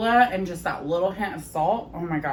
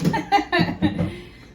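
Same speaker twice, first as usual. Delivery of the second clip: short high laugh, much higher; high bright laugh; 12 semitones higher, 4 dB louder than usual. Real, not acted. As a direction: laugh lightly at yourself. Laughs at her own tea joke.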